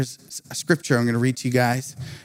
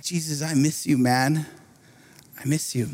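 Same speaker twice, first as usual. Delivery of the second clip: sad longing; 4 dB quieter than usual. Retold or imitated. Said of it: "saddest moment in my faith".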